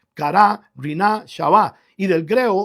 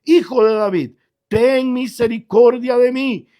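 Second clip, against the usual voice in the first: loud, higher pleading cry; 4 semitones higher, 5 dB louder than usual. Acted. Blind beggar calling out to Jesus by the road, loud pleading. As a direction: beg loudly for mercy. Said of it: "comenzó a dar voces".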